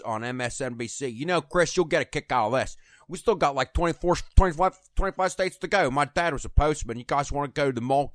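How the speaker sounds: a hint of a chummy politician pitching votes; John Kasich impression. Host doing Kasich for the panel, lightly voiced chummy pitch. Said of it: "I was doing a great John Kasich".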